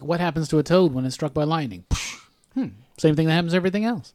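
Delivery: offhand take on a film line, quick throwaway punchline; casual imitation of the intended delivery. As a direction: set up the joke, pause, then toss off the answer. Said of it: "she was supposed to be like".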